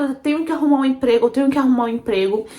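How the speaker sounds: hurried, anxious self-talk; mildly agitated. Retold or imitated. Teen telling herself she needs a job, mildly agitated. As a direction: rattle it out with mild urgency. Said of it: "comecei a ficar agoniada".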